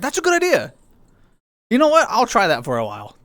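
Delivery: high squeaky mock agreement; cartoon bunny voice. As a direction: play it up squeaky.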